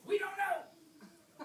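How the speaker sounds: high, slow laughing cry; laughing exclaim. Pretend. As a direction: laugh it out in mock surprise. Teacher mocks kids' answer.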